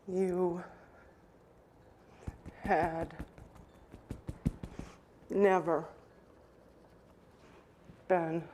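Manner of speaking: long pauses between words; halting, each word alone; slow, word by word. Shown as a demonstration. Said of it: "Say it again".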